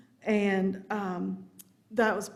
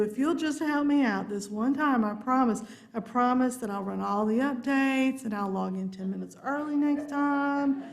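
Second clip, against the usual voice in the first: mock frantic apology, pitched up at first; pleading promises; 4 semitones higher than usual. Speaker begging laptop to connect, mock pleading. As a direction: backpedal and bargain with the machine. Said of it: "making some crazy promises like".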